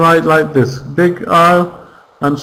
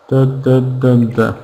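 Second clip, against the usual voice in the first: da da da da beating out the syllables of diabetes, each beat dropping lower; rhythm tapped out; 3 semitones lower than usual. Shown as a demonstration. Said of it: "how many syllables is it".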